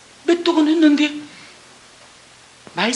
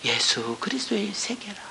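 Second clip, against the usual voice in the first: put-on breathy hushed whisper of the old verse; a reverent hush on 세계라; whispered old wording; 7 semitones lower, 13 dB quieter than usual. Shown as a demonstration. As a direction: whisper 세계라 as if reading it in awe. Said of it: "예전 개역 한글은 뭐예요".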